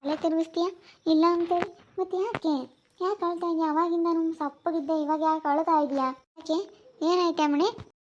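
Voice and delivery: high, fussing questions; concerned coaxing. Real, not acted. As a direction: coax her in a high voice. Coaxing crying sister to answer.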